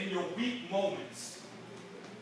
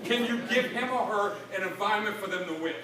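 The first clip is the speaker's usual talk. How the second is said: pointed questions; 3 dB louder than usual. Retold or imitated. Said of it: "I said".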